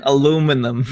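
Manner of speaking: put-on Aluminum in a hammy New York accent. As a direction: give Aluminum a thick New York twang. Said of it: "You try".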